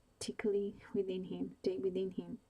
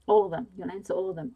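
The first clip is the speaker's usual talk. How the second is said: loud, pitched-up yell; shouting; 11 dB louder, faster than usual. A narrator's reading. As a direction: yell it straight at him. Captor shouts at a defiant prisoner.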